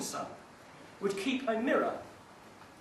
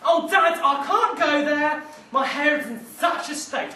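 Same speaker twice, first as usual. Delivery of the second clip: a hint of whiny, higher complaint; lightly voiced vain son; 3 semitones higher, 4 dB louder than usual. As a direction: fuss about his hair. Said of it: "he wasn't too happy about that".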